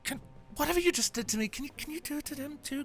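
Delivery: high, agitated, apologetic babble; flustered defence. Acted. Distraught character defends his mistake.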